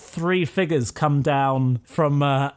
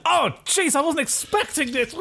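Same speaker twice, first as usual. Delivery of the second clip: high-pitched alarmed protest; hammed-up startled victim; startled bite victim; 10 semitones higher than usual. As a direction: cry out high in mock shock. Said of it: "He's like".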